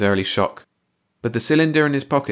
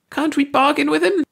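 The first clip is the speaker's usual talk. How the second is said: very high, irritated question; irritable; 4 dB louder than usual. A narrator's reading. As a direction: ask it with irritation. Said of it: "Ursi asked irritably".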